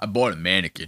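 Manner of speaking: manliest macho voice, very low and deep. Reacting to a clip, imitating the guest's voice: imitating a very manly voice. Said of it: "he's got a crazy voice".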